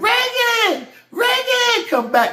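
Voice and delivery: put-on high-pitched scream. Retelling a story, imitating the speaker's mom screaming for Reagan to come back. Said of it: "She's screaming".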